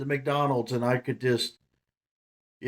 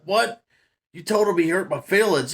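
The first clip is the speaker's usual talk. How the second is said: indignant disbelief; 4 semitones higher, 4 dB louder than usual. Retold or imitated. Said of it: "He's like".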